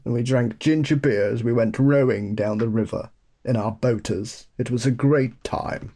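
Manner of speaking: put-on upper-class Eton English accent; mock posh English. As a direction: play the posh English old Etonian. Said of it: "speaks like Hugh Grant".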